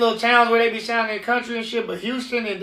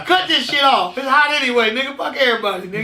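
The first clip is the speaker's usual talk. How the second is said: laughing give-up; 4 semitones higher, 4 dB louder than usual. Retold or imitated. Laughing about giving in.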